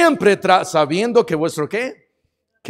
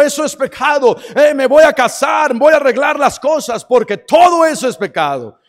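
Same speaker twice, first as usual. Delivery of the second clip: excited new convert; 5 semitones higher than usual. Retold or imitated. New convert declaring to family.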